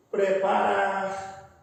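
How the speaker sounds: "Preparar" slow, with the "pre" soft and unstressed; soft unstressed prefix. Shown as a demonstration. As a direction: say "Preparar" slowly, letting the "pre" stay light. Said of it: "A pronúncia, ela é suave".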